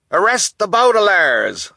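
high, loud cry of command. A narrator's reading. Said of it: "a doctor cried".

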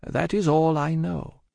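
slow, high, composed Madame. A narrator's reading. Madame answers her husband about destiny, slow and composed. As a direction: measure it out with composure. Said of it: "with her usual composure".

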